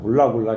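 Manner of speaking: usual speaking voice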